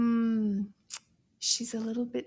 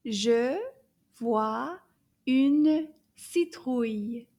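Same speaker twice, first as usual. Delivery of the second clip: Je vois une citrouille spoken slowly, louder; slow model sentence; 6 dB louder, much slower than usual. Shown as a demonstration. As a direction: lay out the sentence slowly word by word. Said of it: "Can you repeat that?".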